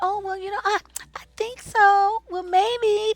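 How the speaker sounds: tiny, meek, timid voice, very high pitched. Criticizing how a woman states her plans, mimicking a timid little voice. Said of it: "what we hear is this timid little".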